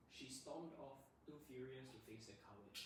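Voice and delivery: clear, smooth read with no word stressed; even, uninteresting read, "stormed" and "furious" left unemphasised; no word emphasis. Shown as a demonstration. Teacher shows students an uninteresting reading, no emphasis. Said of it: "if I read it like this".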